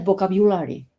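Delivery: "vocabulary" run together as bo-ka-biu-la-ri; joined-up pronunciation. Shown as a demonstration. Teacher showing the result after practice, joined-up pronunciation. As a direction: say "vocabulary" smoothly, keeping the biu. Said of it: "al final te sale".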